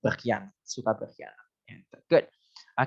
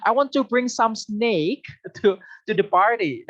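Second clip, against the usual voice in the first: laughing mock line; 8 semitones higher, 3 dB louder than usual. Teacher joking about bringing snakes to a party, laughing. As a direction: tease with a silly example, half laughing. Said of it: "bahaya sekali".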